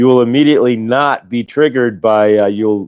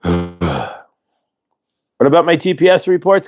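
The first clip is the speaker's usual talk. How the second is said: slow, higher, untroubled reply after a sigh; unbothered calm; 6 semitones higher, much slower than usual. Retold or imitated. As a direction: answer the boss slowly, totally unfazed. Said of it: "then you just, sigh".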